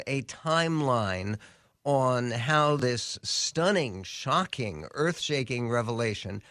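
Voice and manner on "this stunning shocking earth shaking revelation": mock the hype, giving each adjective its own weight; sarcastic. Real, not acted. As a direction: sarcastically overblown news hype. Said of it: "By the way, I'm being sarcastic".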